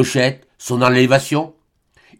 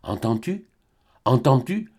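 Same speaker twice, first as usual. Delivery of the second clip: soft stammer; 5 dB quieter than usual. Acted. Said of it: "balbutia Albine à l'oreille".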